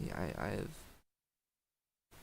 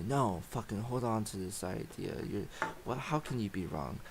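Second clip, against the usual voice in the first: voice of the ego; 3 dB louder than usual. Retold or imitated. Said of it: "Fuck that voice".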